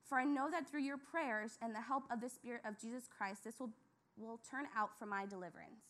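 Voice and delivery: measured, reverent Bible reading; scripture reading. Acted. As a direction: read the passage steadily, with reverence. Rereads verse nineteen.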